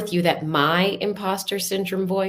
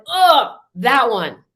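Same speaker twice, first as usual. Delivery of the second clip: exasperated groan; 6 dB louder, slower than usual. Retold or imitated. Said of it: "and you're like".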